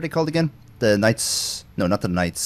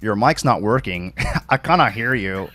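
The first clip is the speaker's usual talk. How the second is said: imitated Canadian-sounding accent. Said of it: "he's making you sound Canadian".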